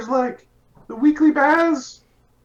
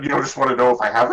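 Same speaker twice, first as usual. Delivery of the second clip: deep fast character voice; 14 semitones lower, much faster than usual. Acted. Low far voice, fast.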